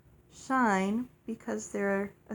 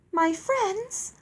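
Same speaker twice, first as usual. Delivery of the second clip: loud, emphatic insistence, drawn out at the end; firm; 8 semitones higher, 6 dB louder, slower than usual. A narrator's reading. Man covering for his fairy friends, mildly firm. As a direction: state it firmly, leaning on each word. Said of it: "Cyril said firmly".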